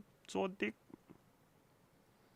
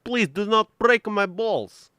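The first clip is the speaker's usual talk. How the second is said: loud, higher exasperated rant; 3 semitones higher, 13 dB louder than usual. Real, not acted. Streamer scolds the nagging AI Soap, loud exasperated. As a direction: loudly tell the AI to stop nagging, higher pitch.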